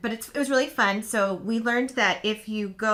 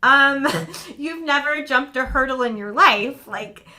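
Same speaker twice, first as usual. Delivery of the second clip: retold warning; 5 semitones higher, 8 dB louder, slower than usual. Mother's alarmed warning.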